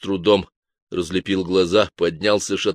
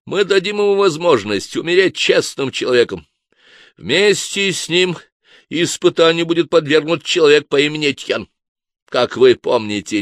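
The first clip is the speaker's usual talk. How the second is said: pompous inquisitor; 6 semitones higher, 6 dB louder than usual. A narrator's reading. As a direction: lord it over the monks from the chair. Inquisitor addresses the monks.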